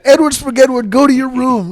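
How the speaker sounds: mock scolding parent. Joking how Eddie's parents scolded him, hammed-up parent scold. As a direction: play a parent sending a kid away, half laughing.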